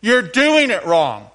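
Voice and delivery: slow, loud, smug scolding; teasing know-it-all; with an attitude. Shown as a demonstration. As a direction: drag it out and stress doing, falling at the end. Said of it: "I'll say it and then you say it".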